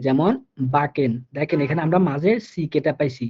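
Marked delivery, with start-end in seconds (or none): 0.8-1.1 বাকেন with ck said as a plain Bengali ক; teacher demo of বাকেন with a k sound; German pronunciation. Shown as a demonstration. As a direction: model বাকেন as German backen, with a crisp k in the middle. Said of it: "এটার উচ্চারণ হবে বাংলা ক এর মতো করে".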